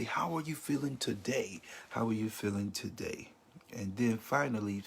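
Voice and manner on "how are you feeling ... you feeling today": gentle, concerned asking; caring check-in with a grieving friend; caring question. Shown as a demonstration.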